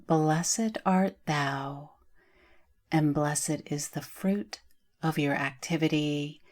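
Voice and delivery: slow, measured recitation of a prayer; unhurried opening invocation; prayerful blessing. Acted. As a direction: recite it as a blessing, pausing between phrases. Recites adapted Hail Mary blessing.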